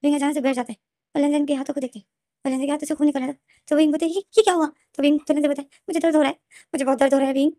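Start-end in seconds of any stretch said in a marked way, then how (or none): 4.1-4.7 much higher, louder startled cry; imitating a shocked gasp of a question. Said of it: "wing shock में हो जाता है". 5.9-7.5 in pain. Retold or imitated. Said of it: "बहुत तकलीफ में था".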